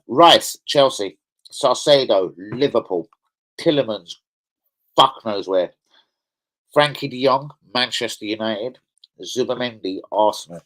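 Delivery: deliberately slowed list; slow, careful re-read of the list; slow motion. Shown as a demonstration. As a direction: spell it out slowly so everyone hears. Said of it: "let me say that again in slow motion".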